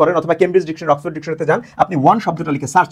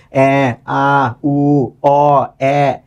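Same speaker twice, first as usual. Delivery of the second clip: put-on baby babble; 3 semitones lower, much slower than usual. Shown as a demonstration. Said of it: "শিশু কথা বলার আগে কি বলে".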